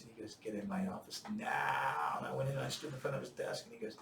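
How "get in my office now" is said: mock bellow, held down in volume; retold angry yell. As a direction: imitate a sergeant major's drawn-out order. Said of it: "he was yelling in my ear".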